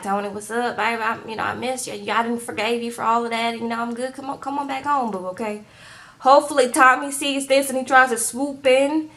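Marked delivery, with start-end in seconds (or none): 0.0-5.6 soft, coaxing make-up call; mock lonely. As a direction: imitate a lonely girlfriend wooing him back. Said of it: "She gonna get lonely".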